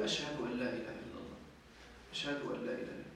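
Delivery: the shahada said low and soft, half under the breath. Shown as a demonstration. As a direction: drop the voice right down. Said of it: "يقول بعدين مخفضا صوته".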